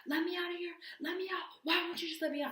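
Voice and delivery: high-pitched pleading without the volume; mock desperate whine to be released; losing it. Jailed girl pleading with laughing officers, losing it. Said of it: "losing my shit".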